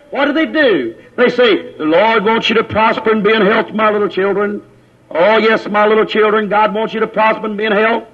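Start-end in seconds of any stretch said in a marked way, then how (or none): 1.8-4.6 mocking false prophet. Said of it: "I'm mocking the false prophets". 5.1-8.1 mocking false prophet. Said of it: "I'm mocking the false prophets".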